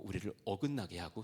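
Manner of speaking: ordinary talk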